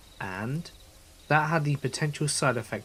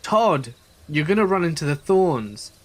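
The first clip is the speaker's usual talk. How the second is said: loud, higher warning yell; 4 semitones higher, 6 dB louder than usual. Retold or imitated. Narrator warning friend running out of the tent, yelling. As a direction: yell after him urgently. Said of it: "I started yelling".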